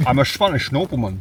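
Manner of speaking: light Scottish Connery voice; Sean Connery as a Spaniard. Retold or imitated. Mocking Connery's Highlander accent for a friend, lightly Scottish. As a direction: claim to be Spanish in an unchanged Scottish voice. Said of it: "Can't you hear it from my accent?".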